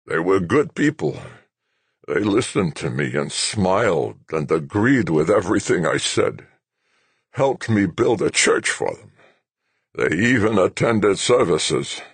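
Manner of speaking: remember fondly, half mocking; nostalgic old man. Old general reminisces.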